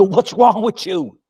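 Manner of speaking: high, slow, put-on scolding "What's wrong with you?" aimed at the ball; mock scolding the ball. Golfer scolding his own golf ball, mock high voice. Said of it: "you look at that golf ball and you go".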